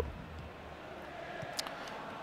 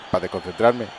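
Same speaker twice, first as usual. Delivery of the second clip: usual speaking voice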